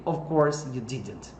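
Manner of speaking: "Of" ending in a voiced v, not an f; teacher modelling "Of course" with v; of with a clear V. Shown as a demonstration. For Portuguese learners, v sound in of. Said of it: "of, som de V".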